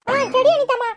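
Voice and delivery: put-on high-pitched little kid voice; high, playful kiddie voice; playful child. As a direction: tease like a cheeky small child. Child agrees.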